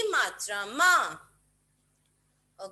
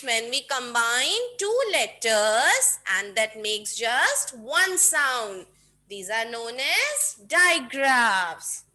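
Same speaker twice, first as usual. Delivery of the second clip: put-on slow, deliberate definition for kids; teaching definition; 3 dB louder, much slower than usual. Shown as a demonstration. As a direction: lay out each word slowly to teach. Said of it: "So kids".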